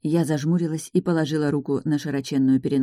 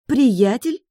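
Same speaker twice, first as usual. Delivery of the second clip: higher, louder incredulous rise; can't believe the rat is a friend; strangled question; 8 semitones higher, 5 dB louder than usual. Acted. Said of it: "сдавленно спросила я". (сдавленно, с недоверием, выше)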